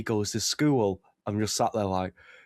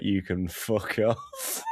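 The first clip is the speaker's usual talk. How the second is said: dismissive retort; slower than usual. Retold or imitated. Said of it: "everyone's just sound like".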